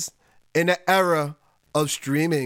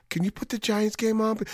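a softer, embarrassed ask; sheepish, without pride; 5 dB quieter than usual. Retold or imitated. Fan asking the bar to change the channel, sheepish. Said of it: "you can't even say it with pride".

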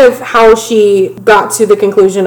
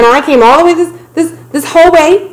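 higher-pitched mock pleading; imitated guilt trip; 7 semitones higher than usual. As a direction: play up the guilt-tripping partner. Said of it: "laying that guilt trip on thick".

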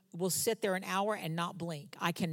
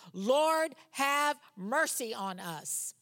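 a raised, drawn-out plea for mercy; crying out; 5 semitones higher, much slower than usual. Retold or imitated. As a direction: call out to him, begging. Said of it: "they cried out".

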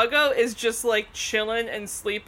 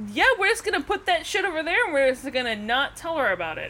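brain voice; 4 semitones higher, faster than usual. Retold or imitated. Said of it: "my brain going".

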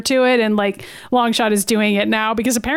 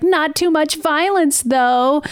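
slow, higher whining complaint; whiny; 5 semitones higher, slower than usual. Retold or imitated. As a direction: whine it like a fussy network exec. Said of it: "in a whiny voice".

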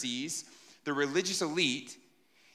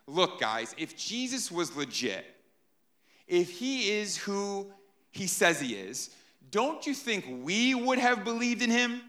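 talking down, rising higher at the end; condescending Pharisees; 4 semitones higher than usual. Retold or imitated. Pharisees talking down to the officers, condescending. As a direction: lecture them like students who know nothing. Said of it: "speaking very condescendingly".

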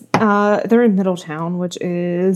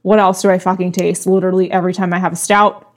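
stuffy blocked nose; talking through a congested nose. Real, not acted. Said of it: "I am perpetually congested".

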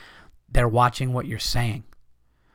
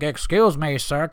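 white guy voice; 3 semitones higher, slower than usual. Retold or imitated. Comic ridiculing a hacky joke people laugh at, mock white guy voice. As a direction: parody a hacky comedian doing his white guy bit. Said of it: "went into that white guy voice".

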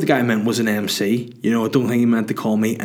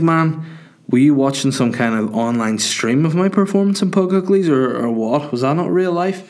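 higher-pitched baffled questioning; mock incredulous; 5 semitones higher than usual. Comedian querying a drunk fan's remark, mock incredulous. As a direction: challenge it in comic disbelief, lifting at the end.

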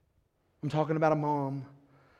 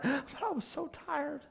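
retold tired sigh; 10 semitones higher, 5 dB quieter than usual. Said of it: "people are crying".

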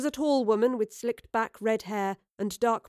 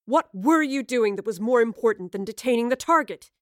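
louder commanding interrogation; angry demand; 2 semitones higher, 4 dB louder than usual. Acted. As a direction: demand answers harshly. Commander angrily questioning.

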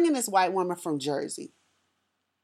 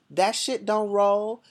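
slow, drawn-out, no-nonsense put-down; blunt sass; much slower than usual. Retold or imitated. Telling the Jersey teacher off, slow mock-blunt sass. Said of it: "of course, I didn't say it like that".

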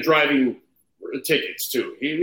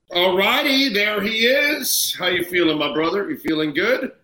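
echoey; 7 semitones higher than usual. Real, not acted. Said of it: "You sound very echoey".

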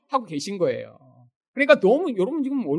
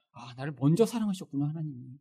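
lower, softer, dawning gratitude; soft realisation; 6 semitones lower, 10 dB quieter than usual. Shown as a demonstration. Believer realising God loved them first, softly moved. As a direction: let it sink in quietly. Models quiet grateful realisation.

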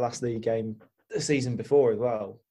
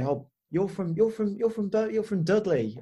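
high, mock Black Country accent; 7 semitones higher than usual. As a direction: imitate locals in a pitched-up Black Country accent. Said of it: "why aren't you speaking like this".

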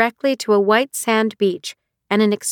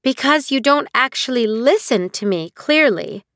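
irritable; 4 semitones higher than usual. Acted. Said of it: "said Nahal irritably".

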